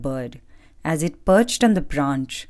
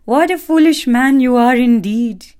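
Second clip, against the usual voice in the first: gloating bird; 8 semitones higher, 6 dB louder than usual. Acted. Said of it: "the little bird laughed".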